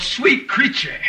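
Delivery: high, mock-tender cry of a dreaming man; lightly voiced lovesick sigh, pitched high; imitating Cassio's sleep cry. Iago mimics Cassio to Othello, high mock-tender cry. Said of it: "cry out".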